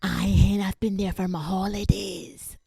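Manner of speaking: hammed-up Scottish local woman; exaggerated Glasgow wifie; wee Scottish genie. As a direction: put on a chatty Scottish auntie voice. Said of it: "a wee genie and she's like".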